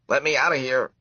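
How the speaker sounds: high, loud little mouse plea; mouse squeak. A narrator's reading. Mouse in a cage begging the woman, high squeaky plea. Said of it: "heard the mouse squeak".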